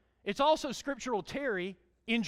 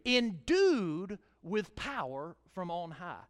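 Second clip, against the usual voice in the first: slow emphasis; much slower than usual. Shown as a demonstration. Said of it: "Say endued".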